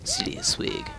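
high announcer-style title read; mock title voice. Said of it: "should be our title for the video".

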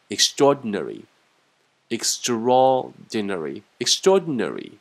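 extraordinary said slowly, every syllable clear; slow teacher drill of extraordinary; slow drilled word. Shown as a demonstration. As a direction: drill extraordinary deliberately three times. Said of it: "extraordinary这个单词很长了".

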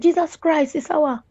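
shocked exclamation. Retold or imitated. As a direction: blurt it out, stunned. Girlfriend's shocked reaction.

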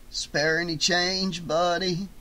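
lightly voiced street character, drawn out; homeless beggar. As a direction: ask slowly for spare change. Homeless man begs, character voice.

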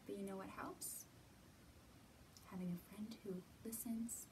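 hushed, secret-sharing tone; soft whisper. Acted. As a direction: whisper it gently to the kids. Gentle tip to children.

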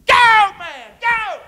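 loud, high shout of go. Acted. Preacher shouting go at the congregation. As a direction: yell go like cheering a runner.

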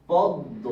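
পদ্ম said as pod-do; doubled দ. Shown as a demonstration. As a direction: separate the two d sounds in পদ্ম. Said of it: "তাহলে এরকম হবে".

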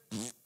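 short scoffing puff of air; dismissive pfft. Acted. God answers the boasting believer, mock dismissive pfft. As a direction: blow off the plea with a pfft. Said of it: "he's not gonna talk like that".

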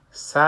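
"س" said as "sa" with open lips; open-lipped fatha. Shown as a demonstration. Teacher shows fatha on a letter, "س" as open "sa".

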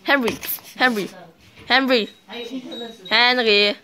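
loud repeated call. Real, not acted. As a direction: keep shouting his name. Calling brother Henry. (laut nach Henry rufen)

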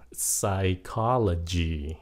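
PSYCHOLOGY slowly, lightly, starting on S; silent P. Shown as a demonstration. Teacher repeats for learners, slow PSYCHOLOGY with silent P. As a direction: say PSYCHOLOGY as a drawn-out "sai-KOL-o-gy". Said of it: "âm P nó câm".

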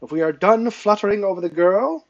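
impatient demand. A narrator's reading. Training master to those round injured page, impatient demand. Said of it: "Lord Wilden demanded".

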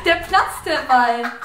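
stifled giggles. Real, not acted. Laughing at video.

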